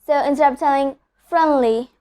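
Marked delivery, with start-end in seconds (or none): 1.3-1.9 "friendly" said as fren-lee; "friendly" with N going straight into L; silent D. Shown as a demonstration. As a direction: drop the D in "friendly". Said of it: "skipping the sound of the letter D".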